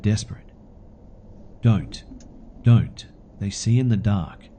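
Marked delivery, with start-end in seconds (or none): 1.6-4.5 loud drawn-out wailing plea, louder on the second don't; a half-performed ghostly wail of warning; dramatic wail. Acted. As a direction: wail it out like a lost spirit begging. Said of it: "Kind of wailed dramatically".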